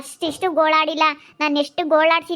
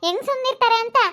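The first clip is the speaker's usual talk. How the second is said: indignant; 7 semitones higher than usual. Acted. Wife's angry outburst at husband.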